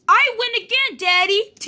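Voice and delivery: a hint of a gleeful little bear; child bear character. Becca gloats to Daddy.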